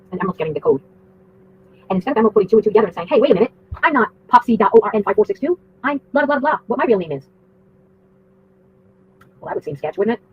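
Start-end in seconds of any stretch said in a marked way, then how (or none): 3.1-7.3 higher-pitched, louder mock objection; mock protest. Storyteller voicing what Emerald should have said, mock protest. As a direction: protest in a raised, put-on voice.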